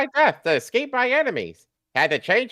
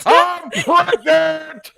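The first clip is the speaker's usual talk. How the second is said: slow, stretched laughing shriek of joy; 6 semitones higher, 5 dB louder, much slower than usual. Acted. Partner shrieks the news from the restroom, laughing.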